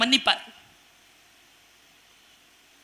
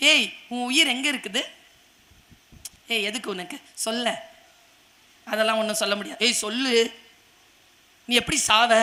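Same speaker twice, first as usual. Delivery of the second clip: soft, wheedling questions, much softer; coaxing whisper-soft plea; 3 semitones lower, 7 dB quieter than usual. Acted. Delilah softly wheedling Samson for his secret. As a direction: coax the secret out gently.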